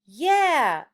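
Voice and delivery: loud, high cheer "Yeah!"; class yelling. A narrator's reading. Whole class answering the teacher with a loud cheer. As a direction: shout it like a whole excited class. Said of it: "everybody yelled".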